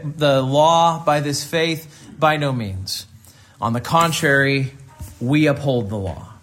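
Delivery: measured, deliberate Bible reading; scripture reading. Acted. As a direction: read scripture aloud, phrase by phrase, letting endings drop. Reads scripture to congregation.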